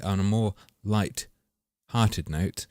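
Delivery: slow correction. Real, not acted. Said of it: "that's not a fucking thing".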